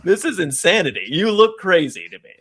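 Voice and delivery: laughing mock disbelief. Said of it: "She's like".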